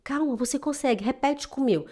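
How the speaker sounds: soft reassuring teacher voice; calm her down gently; soothing. Retold or imitated. Teacher calming a nervous student, softly. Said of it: "Eu falava".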